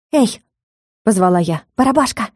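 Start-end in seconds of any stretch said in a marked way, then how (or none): 0.1-0.4 high call into the room. A narrator's reading. Calling out. 1.8-2.3 calling out. A narrator's reading. Calling the spirit.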